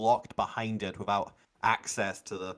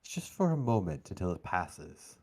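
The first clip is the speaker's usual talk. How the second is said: game master narration. A narrator's reading. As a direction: narrate deliberately, letting pauses hang.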